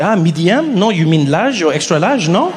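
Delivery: thick mock French accent; doubtful French clerk, questioning tag endings; French shop clerk. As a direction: size up the customer in a French accent. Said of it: "with the French".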